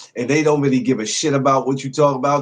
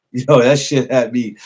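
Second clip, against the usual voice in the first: laughing; 4 dB louder, slower than usual. Real, not acted. Laughing about last night's show.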